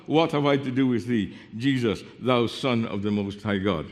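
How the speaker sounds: restrained imitation of a man crying out; mild mock yell. Shown as a demonstration. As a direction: call it out in one run, without truly shouting. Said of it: "he yelled out".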